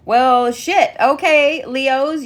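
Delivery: loud, high surprised burst; startled exclamation. Real, not acted. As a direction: caught off guard, half laughing. Cards jumped out, startled.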